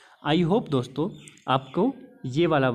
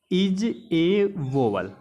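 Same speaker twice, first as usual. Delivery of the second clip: slow keyword; 2 semitones higher, much slower than usual. Shown as a demonstration. Teacher to students, giving the mnemonic keyword, very slow and deliberate. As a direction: drag out इज ए वोवेल word by word, very slow. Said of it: "हमें keyword लेना है कि D".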